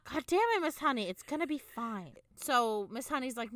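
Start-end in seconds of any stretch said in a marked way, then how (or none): 0.1-2.1 put-on older Matilda voice. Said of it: "doing the voice of older Matilda".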